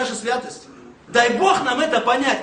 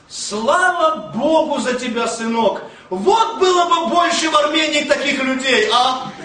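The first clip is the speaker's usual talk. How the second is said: grandmother; 3 dB louder than usual. Retold or imitated. Grandmother thanking the man who carried her bags, lightly imitated. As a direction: imitate an old woman's thanks, building in pitch. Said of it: "И вдруг слышу голос бабушки".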